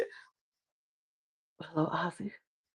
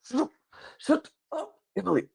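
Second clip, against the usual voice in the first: soft, strangled mock hushing; stifled plea; 9 semitones higher, 7 dB quieter than usual. Christian behind Ozzy silencing Emily, stifled plea. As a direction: squeeze it out under the breath.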